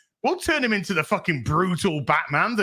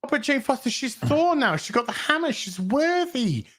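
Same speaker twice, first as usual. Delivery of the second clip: higher, sing-song mock of fans; 5 semitones higher than usual. Mocking fans' Jane Foster argument.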